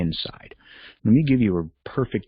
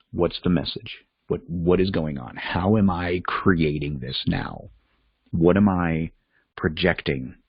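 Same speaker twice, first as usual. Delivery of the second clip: calm, measured self-questioning with pauses; composed and unhurried, at an everyday pitch. Acted. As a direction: ask it calmly, leaving room between questions. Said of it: "Just very calmly say".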